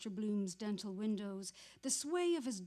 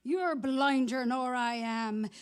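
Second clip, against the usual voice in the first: bitter, louder, slow at first; sour shout; 4 semitones higher, 9 dB louder than usual. Acted. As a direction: hurl it at the man who bumped him. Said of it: "he said sourly".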